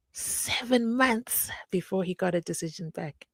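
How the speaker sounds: hushed, breathy aside to the viewers; whispered aside. Real, not acted. To the viewers about the bail wait, a whispered aside. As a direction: lean in and whisper it like gossip.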